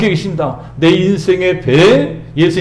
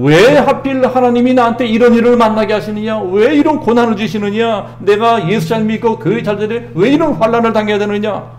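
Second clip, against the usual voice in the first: complaining whine; 5 semitones higher than usual. Retold or imitated. Believers complain to God about hardship, aggrieved whine. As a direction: whine why me at heaven. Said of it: "원망불평을 합니다".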